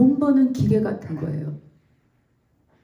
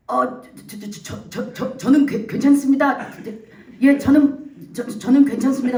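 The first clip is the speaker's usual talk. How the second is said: truck driver stuttering nervously, louder; flustered stammering; 3 semitones higher, 4 dB louder than usual. Retold or imitated. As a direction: trip over every word in alarm. 겁먹은 트럭 운전사가 말을 더듬음. (당황해서 말 더듬는 운전사)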